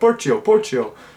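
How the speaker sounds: imitated heavy Indian accent. Speaker retells a man answering people asking about chips, in a thick Indian accent. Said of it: "Indian gentleman with kind of a thick accent".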